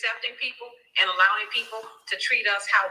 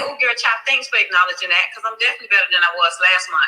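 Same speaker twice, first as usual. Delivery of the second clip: ordinary talk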